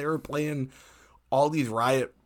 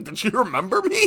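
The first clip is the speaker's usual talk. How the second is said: higher, laughing question; 8 semitones higher, 5 dB louder than usual. Retold or imitated. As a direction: laugh through it. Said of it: "I'm like".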